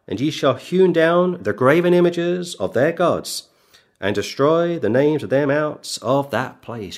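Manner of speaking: measured, solemn King James reading; scripture reading. Acted. Preacher reading Deuteronomy aloud to his congregation, solemn scripture reading. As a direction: read the verses like a pulpit lesson, deliberate.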